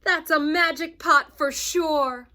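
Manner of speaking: high, loud, slow wonder; amazed Big Anthony. A narrator's reading. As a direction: marvel at the magic pot.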